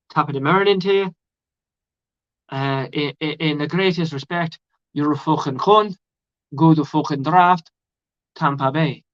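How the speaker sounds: a hammed-up Irish accent, mock polite; a bad Irish accent, cheeky insult. Fan doing an Irish accent at the draft, bad Irish accent. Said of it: "That was my best attempt at an Irish accent".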